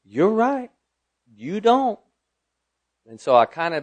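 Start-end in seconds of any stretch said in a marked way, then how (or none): 0.0-2.0 voice of God. Retold or imitated. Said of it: "And he said".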